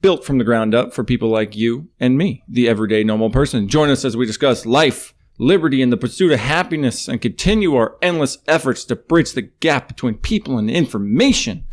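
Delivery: upbeat radio host intro; announcer read. Acted. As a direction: sell it like a show opener. Reads podcast welcome intro.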